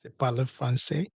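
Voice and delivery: lightly swooning over French; a savouring "mm", then mild mock admiration; admiring listener. Imagined listener admiring French as sexy, lightly swooning. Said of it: "whenever I also want to speak that French accent, you say".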